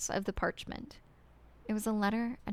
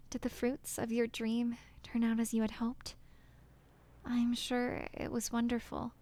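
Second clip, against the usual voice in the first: heartbroken letter writer; 3 semitones higher than usual. Acted. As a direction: read it like a woman's last, apologetic farewell. Reads the woman's farewell letter.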